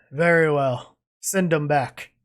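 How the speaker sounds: weathered, grizzled voice. Narrating a scene, an unseen figure in the back answers, grizzled voice. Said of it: "the grizzled voice in the back says".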